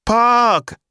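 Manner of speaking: loud, very high drawn-out wail; crying toddler. A narrator's reading. Emma refused the park, loud childish wail. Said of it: "crying even more loudly".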